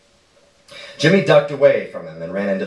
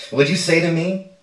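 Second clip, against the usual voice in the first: sharp, much higher menacing challenge; menacing demand; 8 semitones higher than usual. A narrator's reading. Stepfather threatening the boy after an insult, menacing. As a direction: threaten him, voice jumping up.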